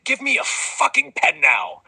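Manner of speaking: high crying scream for a pen; screamed demand. Acted. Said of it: "to scream".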